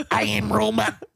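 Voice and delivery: even machine gun syllables; robot voice. Retold or imitated. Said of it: "Mister Robot walked in".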